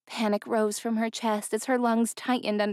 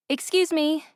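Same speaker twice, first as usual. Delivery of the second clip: calling out; 8 semitones higher, 3 dB louder than usual. A narrator's reading. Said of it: "she called out to the driver".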